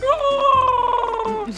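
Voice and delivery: high booming melon overlord; dark lord. Acted. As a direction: proclaim like a tyrant melon. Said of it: "it'd be like".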